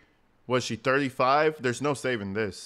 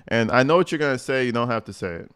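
mock girlfriend rant; 5 dB louder than usual. Mocking the girlfriend on the call.

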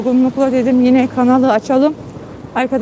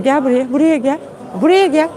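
calling the dog; 3 semitones higher than usual. Real, not acted. Owner calling her dog to the sofa, rising coaxing call. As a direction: call him over, building.

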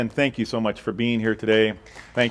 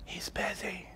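put-on hushed little kid whisper; a child whispering into the phone; small child whispering; 7 semitones higher, 18 dB quieter, slower than usual. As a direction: whisper like a scared four-year-old. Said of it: "the whispering voice says".

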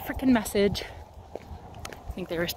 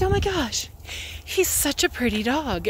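retold gushing; 5 semitones higher than usual. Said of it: "everybody's like".

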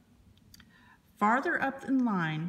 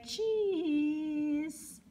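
higher, drawn-out pirate cheese; pirate says cheese; 8 semitones higher than usual. Acted. Pirate posing for the elf's photo, high silly cheese.

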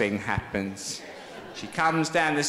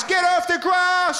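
high, slow angry yell; caretaker shouting; 5 dB louder, slower than usual. Retold or imitated. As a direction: bark it like a furious caretaker. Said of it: "The caretaker's telling us".

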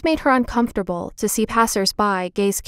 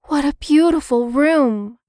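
admiring sigh; 6 semitones higher than usual. Acted. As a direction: sigh it out in wonder, a little higher. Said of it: "sighed Violet".

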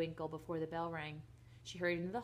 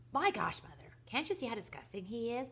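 raised, squeaky mocking voice; high squeaky mimicry; 5 semitones higher than usual. A narrator's reading. Brother mimics his sister to mother, high and squeaky. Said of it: "mimicked Philip in a high, squeaky voice".

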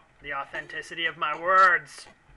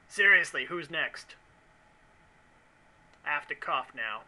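usual speaking voice

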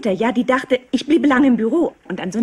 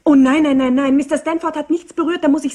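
loud protest; 5 semitones higher, 4 dB louder than usual. Acted. Protesting her boss's innocence.

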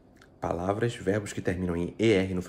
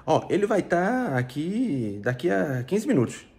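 higher and louder, slowed, everyday chatty way of speaking; casual spoken example; 8 semitones higher, 6 dB louder, slower than usual. Shown as a demonstration. Teacher acting out how people say it in everyday speech, higher and louder. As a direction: toss it off the way people say it aloud, with "vai" falling. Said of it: "quando eu vou dizer".

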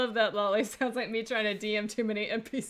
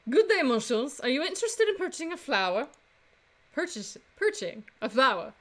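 put-on French accent, lilting upward; female French accent; 3 semitones higher than usual. Flower seller greeting customers, female French accent. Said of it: "do another female French accent".

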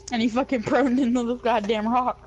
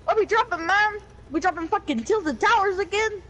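higher-pitched put-on Mexican-American accent; mock Mexican accent; 5 semitones higher than usual. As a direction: ask it in a playful Mexican accent. Stays in put-on Mexican character.

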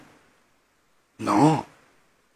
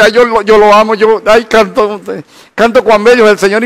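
mock sentimental worshipper; 3 semitones higher than usual. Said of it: "Es fácil decir".

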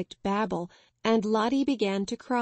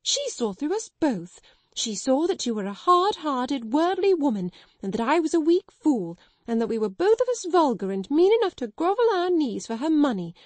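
higher and louder accusing rant; hysterical outburst; 5 semitones higher, 4 dB louder than usual. Acted. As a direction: pour it all out, half out of control. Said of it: "hysterical enough not to care".

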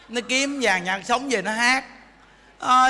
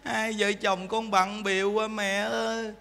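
soft pleading son; 5 dB quieter, slower than usual. Retold or imitated. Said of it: "nói".

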